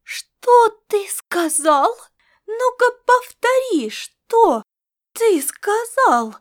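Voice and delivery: slow, loud, high choked outrage; cat choking on indignation, slow and loud; stammering with outrage. A narrator's reading. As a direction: barely get the words out for fury. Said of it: "заикаясь, сказала она".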